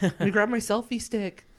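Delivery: high, loud goofy thief voice; dumb thief voice. Pretend. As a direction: play the clueless crook bragging. Mocking dumb selfie-taking thieves.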